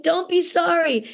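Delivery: high-pitched, soothing reply; retold reassurance, pitched well up; acted comforting. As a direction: gently brush away an apology, voice lifted. Comforting a crying fan.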